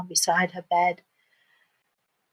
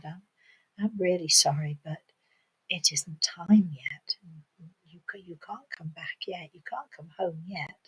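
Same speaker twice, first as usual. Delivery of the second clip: soft, apologetic refusal fading very quiet; gentle lady; 6 dB quieter than usual. Acted. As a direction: let a child down tenderly. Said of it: "very gently took the little girl".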